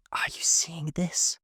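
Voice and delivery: slow, breathy whispered question; hushed, barely voiced. A narrator's reading. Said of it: "I whispered".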